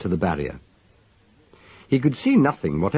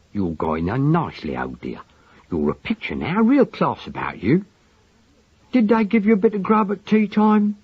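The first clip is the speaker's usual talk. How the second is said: tender murmur; 10 semitones higher than usual. A narrator's reading. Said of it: "tender and solicitous as a lover's".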